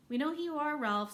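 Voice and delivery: high, loud call across a hall. A narrator's reading. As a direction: call out over the crowd, teasing. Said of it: "someone called out".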